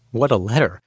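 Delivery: normal talking voice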